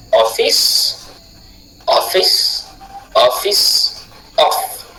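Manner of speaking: office with the off stressed, fice weak; stress on the first syllable. Shown as a demonstration. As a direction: lean on the off of office. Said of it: "Nous le retrouvons dans les mots comme". (office accentué sur off)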